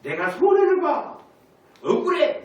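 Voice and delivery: loud, high-pitched aggrieved complaint; acted indignation. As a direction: cry out in protest as one cheated. 손해 본 사람의 억울함 재연. (억울해서 높고 크게 항변하듯)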